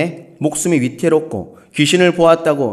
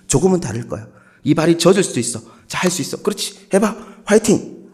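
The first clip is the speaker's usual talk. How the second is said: long-winded coaxing; 3 dB quieter than usual. Retold or imitated. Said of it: "다른 지역 사람이 어떻게 했습니까?".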